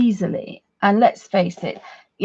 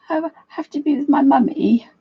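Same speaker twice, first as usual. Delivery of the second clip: higher, pitiful pet voice; silly dog voice; 5 semitones higher than usual. Acted. Voicing her dog Alfie wanting mummy, silly pleading voice. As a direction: plead like an abandoned little dog. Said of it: "I've been doing this silly voice".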